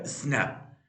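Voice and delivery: स्नैप said crisply as one syllable; a single-tone स्नैप; one-syllable demo. Shown as a demonstration. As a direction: give स्नैप as one clean beat. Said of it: "इसमें एक ही vowel है".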